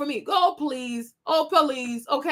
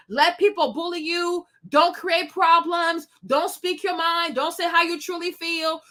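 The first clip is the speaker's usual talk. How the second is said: usual speaking voice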